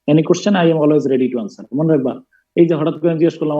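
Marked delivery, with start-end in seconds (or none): 0.1-1.8 slow dictation. Shown as a demonstration. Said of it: "লেখা রাখো".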